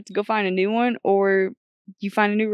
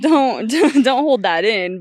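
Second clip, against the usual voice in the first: laughing through the words, slower and louder; 3 semitones higher, 7 dB louder, slower than usual. Real, not acted. Giving friend advice on crying, laughing and louder. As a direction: let the laugh spill into the advice.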